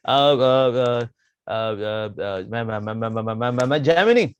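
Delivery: slow, halting stammer; nervous stammer. Acted. Jaimini nervously knocking at the girl's hut, stammering. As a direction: stumble over every syllable.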